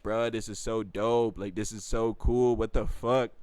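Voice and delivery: loud, slow, emphatic praise; hyping her up. Retold or imitated. Man hyping up his friend's drawing, emphatic praise. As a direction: gush to build her up. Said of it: "When I was hyping her up".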